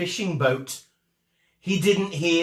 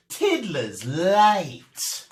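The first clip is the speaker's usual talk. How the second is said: stern teacher; 2 semitones higher, 3 dB louder, much slower than usual. Acted. Teacher marks pupil late.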